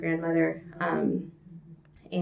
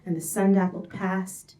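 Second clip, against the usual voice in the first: measured, lyrical poem recital; poetry reading. Acted.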